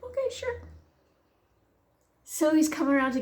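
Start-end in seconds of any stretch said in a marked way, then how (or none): 0.0-0.6 high, light mimicked reply; imitated agreeable son. Son agrees to fetch mother, voiced high and easygoing. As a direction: pitch it way up, softly agreeable.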